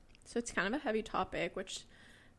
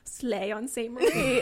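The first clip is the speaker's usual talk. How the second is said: mock fan voice; 2 semitones higher, 7 dB louder, slower than usual. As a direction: drawl it like a gushing fan. Quoting fan comment.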